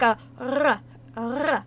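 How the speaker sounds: "r" rolled at the back of the throat as a uvular trill. Shown as a demonstration. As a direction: trill the "r" with the uvula, French-style. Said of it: "I can do, like".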